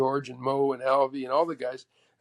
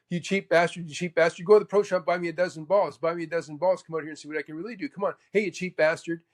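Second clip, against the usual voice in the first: mock Mo taunting a cheap heckler; imitating Mo; 3 semitones higher than usual. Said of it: "And Mo goes".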